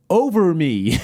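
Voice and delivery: lightly imitated goalkeeper's call; Marcus Hahnemann. Host retelling keeper refusing to dive, lightly mimicked call. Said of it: "all you'd hear him say is".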